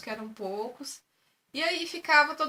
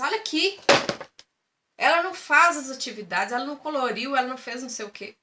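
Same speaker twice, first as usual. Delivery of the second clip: rude teacher; 7 dB louder than usual. Retold or imitated. A mother mimics the rude teacher scolding about her daughter, loud and rude. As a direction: imitate the teacher's rude complaints. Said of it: "com muita falta de educação".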